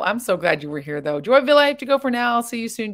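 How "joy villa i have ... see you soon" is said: bright goodbye. Real, not acted. Reading a viewer's goodbye comment.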